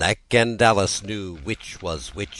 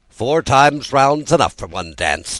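out of breath after dancing; breathless, puffing twin; panting; 7 semitones higher, 7 dB louder than usual. A narrator's reading. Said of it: "Tweedledum panted out".

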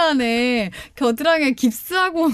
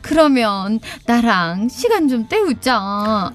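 bossy madam; 2 semitones higher than usual. Acted. Skit: madam bosses the chauffeur.

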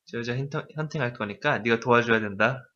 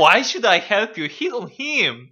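high, slow, laughing disbelief; incredulous; 8 semitones higher, much slower than usual. Shown as a demonstration. Teacher shows the student how to say it with real disbelief. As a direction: refuse like it's ridiculous. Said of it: "이렇게 감정이입을 해서 하면 되는 거야".

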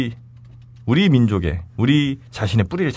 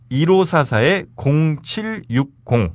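slow number readout; 3 semitones higher, much slower than usual. Shown as a demonstration. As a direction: read the digits slowly and clearly. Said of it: "slow number read for listeners".

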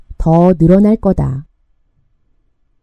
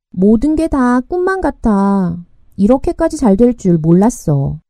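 beaming delight. Acted. Yeoul tells Jihu it feels like a dream, beaming. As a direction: say it through a wide smile, savouring it. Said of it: "여울이 활짝 웃으며 말했다".

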